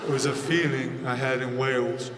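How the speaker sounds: soft, low, mumbly British voice; softly mumbled British accent impression; rock singer impression. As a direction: murmur like a shy British rocker, low and soft. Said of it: "He's like".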